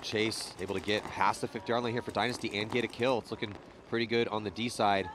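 ordinary talk

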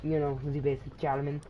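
lightly put-on German accent; casual German accent demo. Shown as a demonstration. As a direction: give it a basic mock German accent. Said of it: "would be German".

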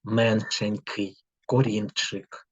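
slow, each word spaced out; slow dictation. Shown as a demonstration. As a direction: read out slowly for writing. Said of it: "І записуємо слова". (повільне диктування слів)

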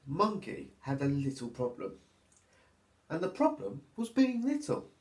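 put-on lively, sing-song reading for little children; storybook narration. A narrator's reading. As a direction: read it like storytime for toddlers. Reads picture book to children.

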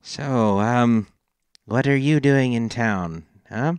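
a hint of a chatty, probing gnome. Gnome asking Fitz about coming to town, lightly voiced small talk. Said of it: "intercepted by the gnome".

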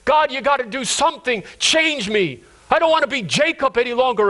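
desperate prayer in a preacher's voice; impassioned plea. Acted. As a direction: beg earnestly to be changed. Pleads as Jacob to God.

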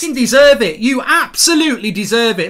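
angry scolding. Real, not acted. Fan to beaten England players, angry scolding. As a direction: tell the losers off, still heated. Fan still raging at losing team.

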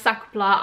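"sac plat" said the French way, nasal-free sak pla with silent t; correcting the name to proper French "sac plat"; French pronunciation. Shown as a demonstration. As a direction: say "sac plat" as a fluent French speaker would. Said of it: "it is pronounced".

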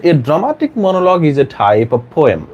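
slow, measured teacher's dictation. Shown as a demonstration. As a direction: read it out slowly for students to write. Teacher dictating answer to memorise. (ধীরে ধীরে শ্রুতলিপি)

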